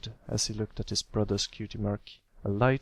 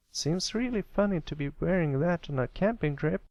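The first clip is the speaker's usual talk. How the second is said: drawling filly; 7 semitones higher than usual. Acted. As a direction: stretch it out teasingly. Applebloom voiced.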